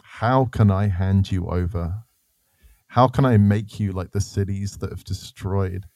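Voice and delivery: slow, deliberate reading in God's voice; measured dramatic Bible reading; solemn scripture reading. Acted. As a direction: read it slowly, weighting each phrase. Reads scripture aloud as God.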